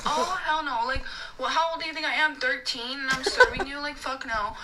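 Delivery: mad server venting in retelling; retold indignation. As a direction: fire off affronted rhetorical questions. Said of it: "this is generally how mad I was".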